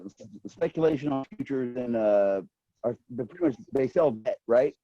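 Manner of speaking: glitchy robotic connection audio; choppy breaking-up call audio. Real, not acted. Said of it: "Your voice is really robotic".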